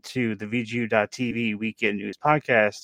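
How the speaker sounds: lightly hammed-up podcast announcer. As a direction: open the show like a shoutcaster. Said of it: "I don't know why I'm talking like this".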